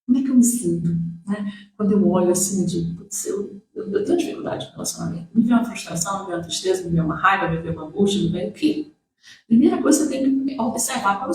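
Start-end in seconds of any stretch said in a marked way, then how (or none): 3.0-5.3 hushed inner voice. Pretend. Inner voice of frustrated admission.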